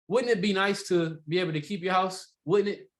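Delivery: "Wouldn't" opens and "Wouldn't it?" closes, rising; tie-down at both ends. Shown as a demonstration. Trainer showing how to weave tie-downs together. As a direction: wrap the question in "Wouldn't" front and back. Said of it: "weave these things together".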